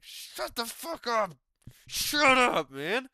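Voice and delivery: high, loud fed-up retort; mock exasperated. Fan yelling back at the commentator, loud and fed up. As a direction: snap back at the gushing commentator. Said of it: "It's like".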